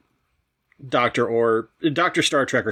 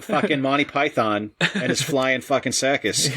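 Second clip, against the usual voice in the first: mock Boston accent. Joking Boston accent about local PBS.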